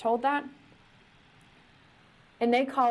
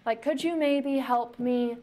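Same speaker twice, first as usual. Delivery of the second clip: casual ask; 4 semitones higher than usual. Retold or imitated. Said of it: "This is not like".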